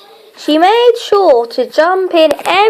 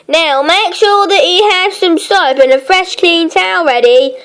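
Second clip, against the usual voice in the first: sternly; 3 semitones higher than usual. Acted. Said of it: "she said sternly".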